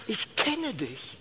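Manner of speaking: hoch, leise und gedehnt; innige Zusage. Retold or imitated. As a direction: sprich es langsam und eindringlich zu. Spricht Jesu innige Zusage. (leise, nachgesprochene Liebeszusage)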